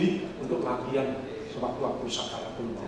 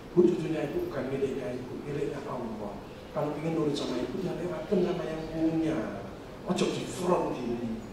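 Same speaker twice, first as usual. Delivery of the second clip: retold gentle advice; 2 semitones lower, 7 dB quieter than usual. Menirukan nasihat lembut kepada pasien. (menirukan nasihat yang lembut dan pelan)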